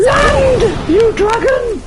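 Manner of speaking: high, loud commanding roar; booming shout. Acted. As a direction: order the dragon down. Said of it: "If I shout very, very loudly".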